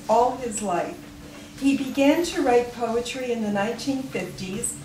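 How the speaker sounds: measured read-aloud with falling sentence ends; formal tribute read from the page; formal biography reading. Real, not acted. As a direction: read a memorial biography to an audience, clearly phrased. Reads a written biography aloud.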